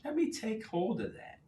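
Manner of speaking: high, eager voice; the mind grabbing good news; excited subconscious. Retold or imitated. Coach voicing the subconscious mind, mock excited. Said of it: "when you add excitement to it".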